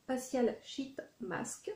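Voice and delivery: slow, careful English label read in a French accent; halting English with a French accent. Real, not acted. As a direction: sound out the English words one by one in a French accent. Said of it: "parler en anglais parce que c'est une catastrophe".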